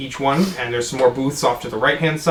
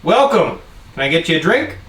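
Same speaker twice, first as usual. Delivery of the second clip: lightly voiced bartender; 4 semitones higher than usual. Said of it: "looks up and goes".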